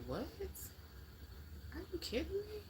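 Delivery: high, incredulous squeal; mock disbelief. To her livestream viewers, a high mock-shocked squeal. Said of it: "I'm like".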